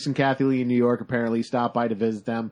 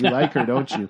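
put-on Greek accent. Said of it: "Thick Greek accent".

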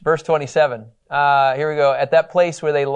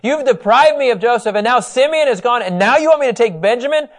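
anguished accusation; 8 semitones higher, 5 dB louder than usual. Retold or imitated. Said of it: "He's equating his brothers".

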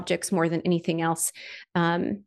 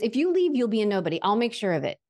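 threatening photographer; 3 semitones higher, faster than usual. Retold or imitated. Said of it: "He goes".

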